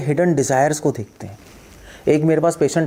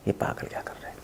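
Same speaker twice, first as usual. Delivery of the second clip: a hushed, breathy aside to yourself; under-the-breath judgement; whispered inner thought; 15 dB quieter than usual. Retold or imitated. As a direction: whisper the thought as if nobody should hear. Passing thought about Harihar.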